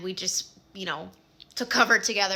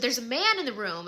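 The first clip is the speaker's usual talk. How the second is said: mildly raised, imitated alarm; a touch of panic; mock screaming sister; 3 semitones higher than usual. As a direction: retell a frightened cry without really screaming. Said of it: "she starts screaming".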